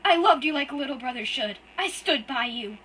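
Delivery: high, loud, tearful and breaking; sobbing out betrayal at full force; crying outburst. Acted. Hurt boy screams at his brother through tears, loud and high.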